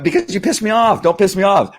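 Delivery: hammed-up don't-mess-with-me; mock angry warning. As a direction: warn them off with a grin. Mock warning to people who anger.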